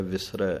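ਵਿਸਰੈ ਦਾ ਅੰਤ ਦੁਲਾਵਾਂ ਵਾਲਾ ਐ; ਵਿਸਰੈ ਆਖਰੀ ਐ ਸਾਫ਼ ਬੋਲੋ; with ai vowel. Shown as a demonstration. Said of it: "ਦਲਾਈਆਂ ਦਾ ਧਿਆਨ ਰੱਖ ਕੇ ਬੋਲਣਾ ਹੈ". (ਵਿਸਰੈ, ਰਾਰੇ ਉੱਤੇ ਦੁਲਾਵਾਂ ਦੀ ਆਵਾਜ਼)

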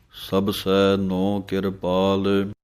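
measured, drawn-out recitation of gurbani; slow devotional recitation; slow scripture recitation. Shown as a demonstration. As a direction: recite each word slowly and clearly. Recites scripture line slowly.

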